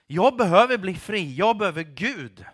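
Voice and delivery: loud, emphatic admission of need; urgent personal declaration; insistent confession. Real, not acted. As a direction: start forcefully and declare the need. Contrasts plea with boasting of freedom.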